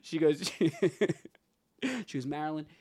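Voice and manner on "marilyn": very soft imitation of awe; hushed retold reverence. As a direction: drop right down, almost confiding. Retold reverent praise of Marilyn.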